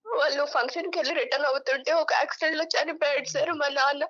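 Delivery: crying while recounting a loss; emotional, tearful. Real, not acted. Daughter telling the host of her father's fatal accident, tearfully. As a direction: tell it through real tears. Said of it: "నేను చాలా emotional అవుతాను".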